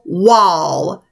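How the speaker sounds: slow, careful teacher spelling. Shown as a demonstration. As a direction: spell w-a-l-l very slowly. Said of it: "we're gonna think to spell".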